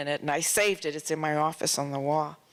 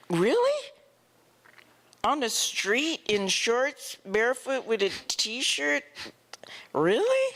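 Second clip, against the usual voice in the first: incredulous really; 5 semitones higher than usual. Retold or imitated. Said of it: "And I went".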